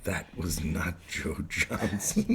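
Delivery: slow mock British accent; a slow, hammed-up British accent; a playful fake British accent. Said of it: "as we're talking in this British accent".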